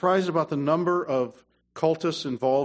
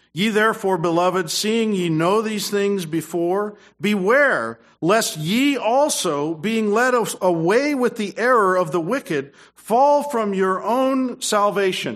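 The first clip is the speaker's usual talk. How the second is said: slow, loud, raised preaching read; scripture reading; 6 semitones higher, 5 dB louder, slower than usual. Acted. Preacher reading verse aloud to church, loud and slow. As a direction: proclaim the verse to the congregation.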